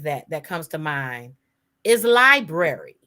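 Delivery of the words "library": library as LIE-brair-ee; B-R pronunciation. Shown as a demonstration. Cohost offering a matching word, library with BR sounded. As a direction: hit the BR in library clearly. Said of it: "such a hard time with the B R sound".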